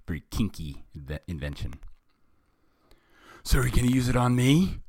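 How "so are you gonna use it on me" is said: high, loud, quick question; hammed-up worried hero voice; anxious captive. A narrator's reading. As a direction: ask the villain in alarm. Captive turtle questions villain.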